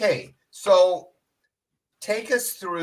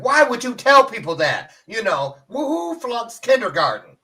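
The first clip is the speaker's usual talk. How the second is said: incredulous; 9 semitones higher, 6 dB louder than usual. Retold or imitated. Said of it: "I was like".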